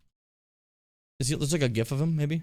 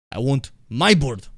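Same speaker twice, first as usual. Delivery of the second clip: Ivan Vanko; 5 dB louder, slower than usual. Retold or imitated. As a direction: play Ivan Vanko's bad Russian accent. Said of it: "talking about how much he wants his bird".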